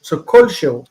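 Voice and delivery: "kol" stressed first, shehu falling after; teacher marking the stress on "kol". Shown as a demonstration. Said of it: "the stress is actually here".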